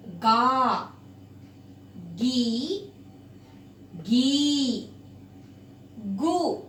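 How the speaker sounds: each ga syllable spoken apart and clearly; slow syllable drill. Shown as a demonstration. Teacher drilling pupils on the ga syllables. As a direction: read the barakhadi syllable by syllable. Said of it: "उसको ध्यान से सुनिएगा आप".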